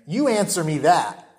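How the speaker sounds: YOU leaned on, then a firm ANSWER ME THAT; firm quoted demand with weight on YOU; emphatic. Retold or imitated. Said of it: "he adds that very emphatic".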